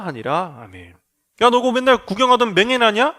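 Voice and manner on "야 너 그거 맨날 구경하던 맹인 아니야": gossiping neighbour. Acted. Neighbours gossip at healed blind man.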